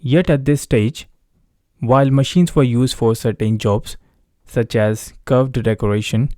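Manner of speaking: slow, steady reading of an exam passage; read-aloud demo. Shown as a demonstration. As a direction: read each phrase slowly and clearly, like a model answer. Teacher reads sample paragraph aloud. (धीमी, साफ़ आवाज़ में paragraph पढ़ना)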